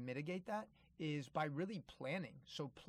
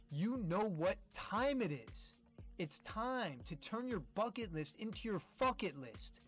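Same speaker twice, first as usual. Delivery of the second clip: hyped sign-off; 6 semitones higher than usual. Real, not acted. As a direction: build it up big for the outro. Sign-off catchphrase over music.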